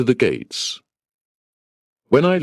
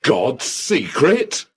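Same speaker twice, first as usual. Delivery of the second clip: shocked echo; 5 semitones higher, slower than usual. Acted. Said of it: "I cried".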